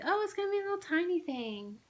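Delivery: quoting the shop lady. Retold or imitated. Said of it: "The lady's like".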